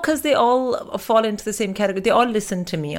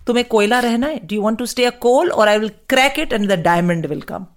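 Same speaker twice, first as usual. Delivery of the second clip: louder, a firm hint of a scolding Indian mom; imitating Indian mother; 3 semitones higher, 5 dB louder than usual. Mum lecturing her child, firm mock scold. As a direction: quote mum's tough-love saying firmly. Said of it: "she used to say".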